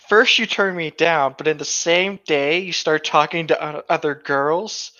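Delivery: lightly voiced yandere, measured and cold; mock yandere girl. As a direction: play the jealous yandere calmly scolding him. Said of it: "the yandere is immediately just like".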